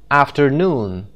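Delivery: "Afternoon" leaning on NOON; after-NOON, last syllable brought out; stress on third syllable. Shown as a demonstration. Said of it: "The third syllable".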